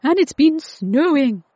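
high, loud, thrilled report; excited announcement. Acted. Jacob tells Tilly about the snow, excited. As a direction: call the news out brightly.

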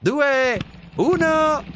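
put-on child shouting the countdown; shouted countdown. A narrator's reading. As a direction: call out the countdown eagerly. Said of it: "shouted Zoe".

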